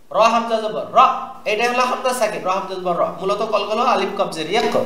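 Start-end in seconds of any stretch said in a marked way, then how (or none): 4.6-4.7 "ইক" with a bounced k; qalqalah bounce. Shown as a demonstration. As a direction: release the k of "ইক" with a short echo. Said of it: "এটা কলকলা".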